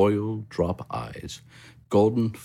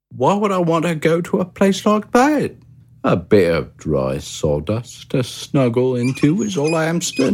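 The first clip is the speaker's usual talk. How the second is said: much higher, content little hamster voice; Pip the hamster; 7 semitones higher, 3 dB louder than usual. A narrator's reading. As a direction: chirp it like a cosy, happy hamster. Pip refuses.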